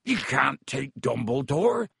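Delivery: slow, understated cry of protest; restrained yell. A narrator's reading. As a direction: protest in a big character voice, without full volume. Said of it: "yelled Hagrid".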